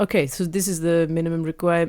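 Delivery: put-on slight, accidental French accent; a hint of French accent. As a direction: slip lightly into a French accent. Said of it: "I'm doing a French accent".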